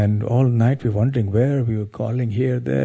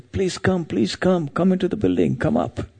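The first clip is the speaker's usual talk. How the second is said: higher-pitched mock call, not truly loud; imitated calling out; 7 semitones higher than usual. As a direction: act out calling someone in, voice raised in pitch. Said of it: "he heard a loud voice from a building".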